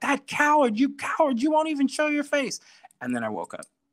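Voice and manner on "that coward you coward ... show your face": mock screeching scream, very high and shrill. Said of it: "I start screaming".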